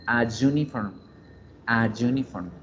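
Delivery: a uniform joined as "ayuniform"; vowel-consonant linking. Shown as a demonstration. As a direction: model a uniform with A flowing into Y. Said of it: "Vocal A, consonante Y".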